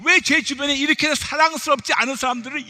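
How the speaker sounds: exasperated prayer building in force, then dropping; acted-out indignant pleading, bilingual and insistent; protesting to God. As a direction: wail a mock complaint to the Lord. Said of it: "그렇게 여쭤봤죠".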